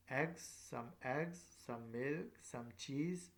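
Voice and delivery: "eggs", "milk", "cheese" each lifting upward; rising list intonation. Shown as a demonstration. Teacher showing how to start a list, rising intonation. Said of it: "here is your voice is rises up".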